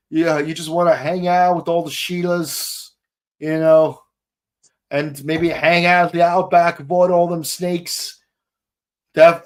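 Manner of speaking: put-on laid-back Australian accent; chill Australian. Podcaster posing as an Aussie fond of the outback, relaxed Australian accent. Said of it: "a lot more chill of a voice".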